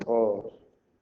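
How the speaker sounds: each syllable alone, long pauses between. Shown as a demonstration. Teacher separating the word for pupils, syllable by syllable. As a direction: break the word into four slow, separate beats. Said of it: "Separo la palabra en sílabas".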